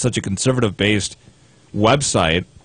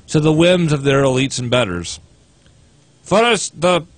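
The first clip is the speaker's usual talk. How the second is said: attempted Russian accent. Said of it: "I can't do a Russian accent".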